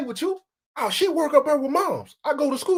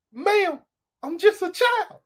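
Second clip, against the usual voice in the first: put-on higher, pleading little-boy voice; mock childlike plea; 8 semitones higher, slower than usual. Teen pleading innocence to the cougar, high mock whine. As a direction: beg like a helpless kid. Comic catchphrase refrain.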